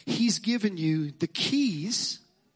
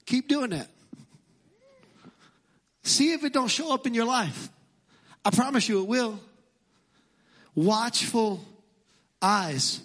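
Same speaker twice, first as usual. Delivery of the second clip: emphatic preaching; 5 semitones higher than usual. Real, not acted. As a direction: drive the promise home from the pulpit. Preacher repeats the line, louder.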